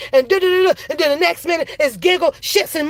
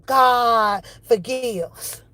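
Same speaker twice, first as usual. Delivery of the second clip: slow solemn; 3 semitones lower, much slower than usual. Real, not acted. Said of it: "slowed, solemn repetition".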